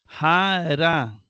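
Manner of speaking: "Jara" said as ja-RÁ, both syllables drawn out; "Jara" slowly and firmly, accented at the end; stress on last syllable. Shown as a demonstration. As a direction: lean on the final "ra" of "Jara". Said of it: "se acentúa en la última sílaba".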